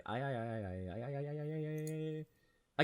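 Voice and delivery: long rising "ay-ay-ay", soft. Real, not acted. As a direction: groan a stuttering ay-ay-ay that climbs and holds. Drawn-out wordless moan between remarks.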